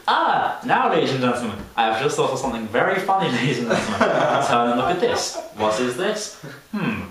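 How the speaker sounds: imitating a rambling guide; lightly voiced fussy guide quizzing the group; mock tour guide. Teen mocking a guide quizzing tourists, rambling. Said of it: "every time she thinks of something new".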